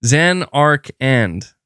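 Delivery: Zanarkand drawn out slowly in separate syllables; stretched-out "Zanarkand", syllable by syllable; habitual mispronunciation. Shown as a demonstration. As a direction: say Zanarkand slowly, as zan-ark-and. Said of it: "that is how I'm saying it".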